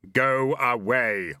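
slow, drawn-out commanding yell. Acted. Susan yelling at the hippo in the water to go away. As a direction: bellow it with a teacher's full authority. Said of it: "and yelled".

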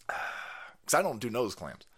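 slow conspiratorial whisper; whispered aside. Real, not acted. Comic whispering a denial to the boys, slow whisper. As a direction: hush it like a secret, slowly.

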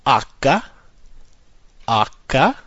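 Acca said AH-kah; H named Acca, stress on first syllable; Italian letter H. Shown as a demonstration. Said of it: "Letter H is a fun one".

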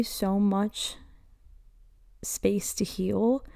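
slow breathy whisper; soft whisper. Real, not acted. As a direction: let it fall to a hushed whisper. Emotional podcast intro.

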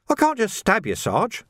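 high-pitched wail of protest; plaintive, pitched far above the narration. A narrator's reading. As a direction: wail it like a reluctant lad. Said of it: "Sam wailed".

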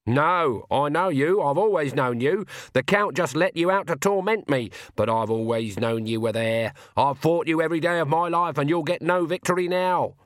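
defiant. Acted. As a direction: stand up to the shadow firmly. Granny defies her shadow.

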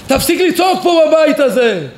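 acted mother's yell; irritated mother. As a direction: raise your voice like a tense mom. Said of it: "ואמא קצת עצבנית, באותו יום מתוחה".

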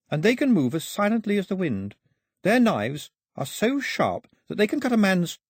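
put-on high-pitched, ominous warning as a girl; girl warning her captors. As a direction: warn them in a high girl's voice.

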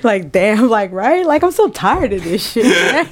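exasperation breaking into laughter; laughing complaint. Real, not acted. Promoter venting about the local scene, laughing. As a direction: complain while cracking up. Both crack up over blunt remark.

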